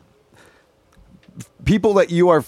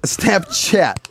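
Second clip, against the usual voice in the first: whisper; 4 semitones higher, much slower than usual. Shown as a demonstration. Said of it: "whispered repeat".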